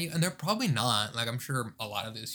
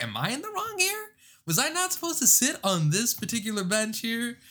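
mock worried; 9 semitones higher than usual. Imagining what car owners think.

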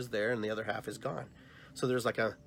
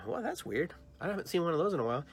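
surprised; 5 semitones higher, faster than usual. Retold or imitated. Surprised finding old answering machine.

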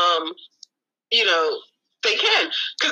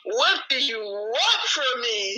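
Impression of a singer. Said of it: "in my singer voice".

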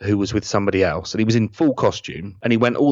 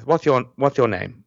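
Pertwee impression; 3 semitones higher than usual. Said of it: "Sorry about the impression".

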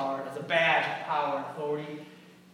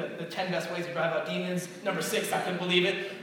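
clickbait style; 3 semitones higher, 3 dB louder than usual. Pretend. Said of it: "it's like the clickbait style".

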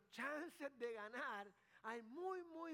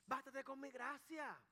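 voice of God; 2 semitones higher than usual. Retold or imitated. Preacher voicing God answering Paul, lightly reassuring. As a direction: speak as God comforting Paul, slow and firm. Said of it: "Dios le dijo".

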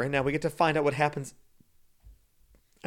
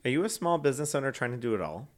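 ad read; 3 dB louder than usual. Acted. Reads a radio ad.

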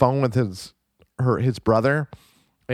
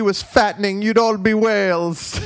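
higher, projected retold insult; mock taunting; 7 semitones higher than usual. Podcaster imitating man mocking sailboat people, mock taunting. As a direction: deliver a hammed-up jeer, stretching the end. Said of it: "making fun of each of the people".

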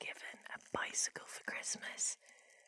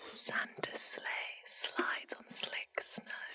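slow careful; much slower than usual. Shown as a demonstration. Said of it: "I wonder if I could do that quite fast".

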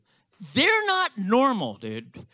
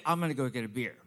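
dad's line; 11 semitones lower, 5 dB quieter, much faster than usual. Retold or imitated. Quoting dad, deep and quiet.

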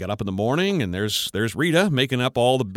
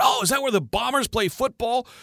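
put-on high, eager kid asking; innocent question; 11 semitones higher than usual. Grandson probing grandpa about the Bombers, eager high voice. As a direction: ask it bright and innocent.

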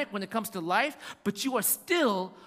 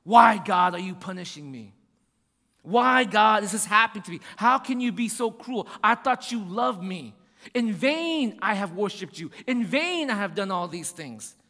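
mock complaint; 4 dB louder than usual. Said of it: "what do you do?".

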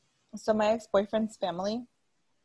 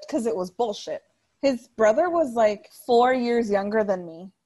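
getting heated; 4 dB louder than usual. Real, not acted. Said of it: "I'm getting heated now just talking about it".

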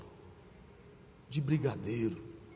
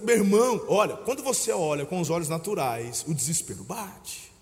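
normal talking voice

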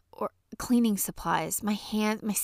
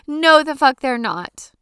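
yelled rant again; 5 semitones higher, 10 dB louder than usual. Real, not acted. Repeats the rant line.

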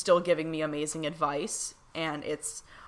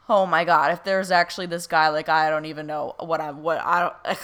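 louder, tumbling out in real disbelief; flustered excitement; 4 dB louder than usual. Real, not acted. Telling viewers about the creepy guy, flustered and excited. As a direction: stumble over words, too stirred up to finish. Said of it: "I can't even talk right now".

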